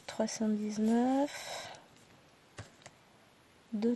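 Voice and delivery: ordinary talk, nothing marked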